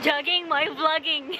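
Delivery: laughing through the words. Real, not acted. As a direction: chuckle while saying it. Laughing while jogging.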